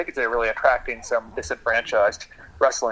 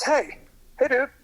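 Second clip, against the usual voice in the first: high, laid-back dude voice; cool guy voice; 9 semitones higher than usual. Retold or imitated. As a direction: say it like a proud party guy. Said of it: "this guy says".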